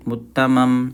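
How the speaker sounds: usual speaking voice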